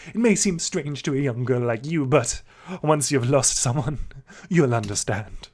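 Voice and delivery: lightly put-on wistful biker bird; weird sparrow voice. Sparrow musing on loss to the girl, lightly put-on. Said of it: "Let's just do that weird voice".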